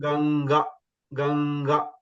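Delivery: "Ganga" with a lingering nasal ng; throat and nose. Shown as a demonstration. Teacher modelling before student tries, nasal ng in "Ganga". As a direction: let the ng of "Ganga" ring in the nose. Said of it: "sound will come from the nose also".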